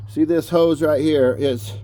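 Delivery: winded, panting between words; out of breath from the work. Real, not acted. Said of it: "I'm still out of breath".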